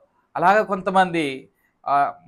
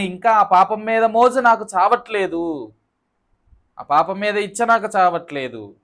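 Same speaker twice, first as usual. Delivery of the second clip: acted penitent's lament, pitch raised; imitated tearful confession; 4 semitones higher, 3 dB louder than usual. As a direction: confess helplessly, pleading without real tears. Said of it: "అని ఏడవాలి". (ఏడుస్తూ మొరపెట్టుకుంటున్నట్టు అభినయం)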